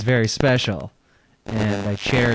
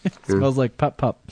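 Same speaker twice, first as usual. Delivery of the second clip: laughing. Real, not acted. Laughing at the joke.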